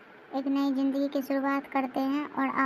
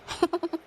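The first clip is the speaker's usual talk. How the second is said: short higher-pitched laugh; 4 semitones higher than usual. Acted. Women teasing over the new daughter-in-law, short laugh. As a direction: let out a brief laugh.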